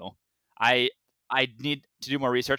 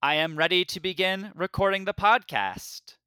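higher-pitched, evenly measured robot voice; 7 semitones higher than usual. Pretend. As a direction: put on a mock robot monotone, pitched up. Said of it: "doing a robot voice".

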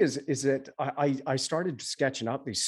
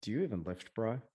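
gym bro; 5 dB quieter than usual. Retold or imitated.

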